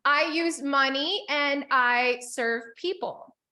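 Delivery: slow, spaced affirmation for the group. Shown as a demonstration. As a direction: lay each word out slowly. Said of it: "Say it with me".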